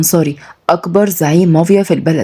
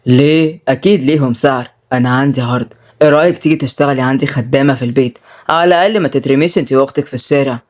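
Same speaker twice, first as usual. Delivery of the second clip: low, mildly crafty crime boss; sly; 5 semitones lower than usual. Acted. Boss offers Malak a servant's job, sly. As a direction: make the offer slyly, voice lowered. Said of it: "رد سالم بمكر".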